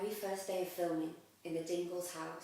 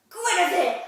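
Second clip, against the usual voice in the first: name blurted out very loud; blurted shout; 11 semitones higher, 17 dB louder than usual. Retold or imitated. Finally remembering her line onstage, a loud blurted name. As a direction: burst it out at full volume. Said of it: "in the end I went".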